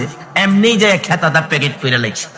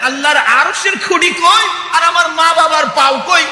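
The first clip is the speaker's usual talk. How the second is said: scoffing laugh; 6 semitones higher than usual. Acted. Man scoffs at the saint.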